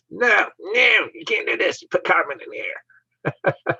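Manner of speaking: high-pitched mock protest; Greta. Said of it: "maybe Greta had her thumb".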